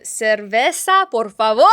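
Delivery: cerveza slowed right down, por favor in Spanish; careful Spanish. Shown as a demonstration. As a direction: order a beer in careful Spanish. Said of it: "Una ce".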